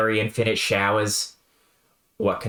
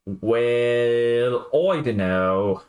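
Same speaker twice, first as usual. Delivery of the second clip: southern drawl; much slower than usual. Acted. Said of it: "With the southern drawl".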